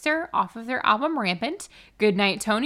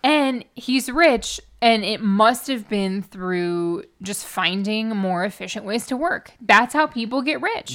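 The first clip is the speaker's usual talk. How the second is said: sarcastic; 4 dB louder than usual. Retold or imitated. Mocking rich-man logic.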